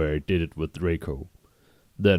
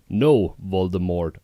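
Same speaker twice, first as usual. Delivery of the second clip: shouted back; 3 dB louder than usual. Acted. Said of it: "I shouted back".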